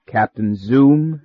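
slow, drawn-out ominous question. Acted. Clubman repeats the name ominously, slow and drawn out. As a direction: let each word hang with menace. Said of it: "said someone ominously".

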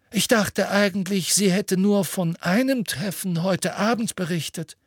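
put-on high-pitched old headmaster voice; Dumbledore, mildly querying. Dumbledore questions what the witness can report, mildly querying. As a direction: lift it high in a polite question.

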